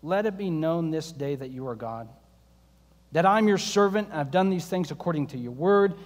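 Elijah praying humbly, hushed and low; humble prayer. Retold or imitated. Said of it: "he prayed this prayer".

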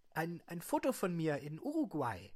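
whispered high voice; whispering. Acted. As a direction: whisper it shyly. Patient shows photos.

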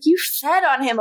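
YOU hit hardest, falling after; stress on you. Retold or imitated. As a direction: accuse her, leaning on You. Stefan accusing Elena.

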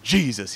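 JESUS leaned on, falling; JESUS said as a word to savour; grandpa's way of saying Jesus. Retold or imitated. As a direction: imitate grandpa's weighted JESUS. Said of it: "had a way of saying it".

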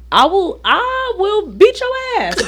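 put-on mother threatening lazy kids, half laughing; mock threat. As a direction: drag it out as a playful threat.

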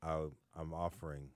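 low, softened mock sales offer; Vince impression. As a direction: imitate a buddy pitching a racket, voice dropped low. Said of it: "Vince will sit there and say".

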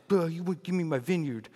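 mock whiny sulk of a toddler-like king; pouting. Sulking king complains to his wife about the vineyard, mock pouting. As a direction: play up a childish pout. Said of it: "he's pouting again".

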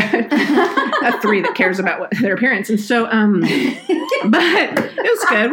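talking high and loud through laughter; can barely get the words out for laughing; real laughter. Real, not acted. Laughing at her own vanity.

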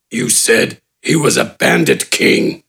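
very low, slow, rough orc rumble; grudging brute. A narrator's reading. Gafgarn grudgingly agreeing to help, low and slow. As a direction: agree reluctantly, deep.

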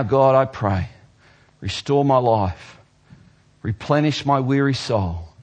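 prayer. Acted. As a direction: lead them in a humble plea. Models a prayer.

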